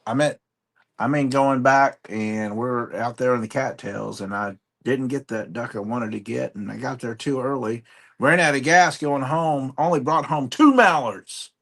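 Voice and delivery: folksy Southern hunting-tale voice; Southern accent. Pretend. Hunter telling of a failed duck hunt, Southern accent. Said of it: "I had to do the Southern accent, but you started it".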